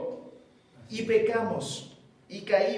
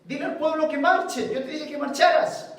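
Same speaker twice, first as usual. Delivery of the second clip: raised commanding voice of God; 4 semitones higher, 3 dB louder than usual. Acted. God orders Moses to march, commanding. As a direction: order him to march, firmly.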